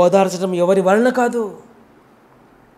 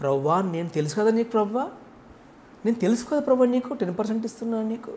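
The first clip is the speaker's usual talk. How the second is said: smug, self-praising prayer, partly quick; boastful Pharisee; faster than usual. Acted. Pharisee boasts of his tithe to God, smug mock prayer. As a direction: brag to God, lightly mocked. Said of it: "హెచ్చించుకున్నాడు కదా".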